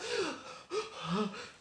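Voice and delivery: high acted gasp; overcome gasp. Joseph sees his younger brother, overcome gasping. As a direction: gasp as if choking up with emotion.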